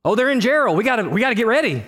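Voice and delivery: rising eager, rushing on "we gotta get ready"; excited. Retold or imitated. Checking parents' location, eager and rushing. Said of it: "I just look at".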